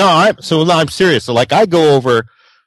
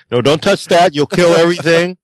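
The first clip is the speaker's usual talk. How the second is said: mock panicked controller; 4 semitones higher than usual. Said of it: "like you're an air traffic controller".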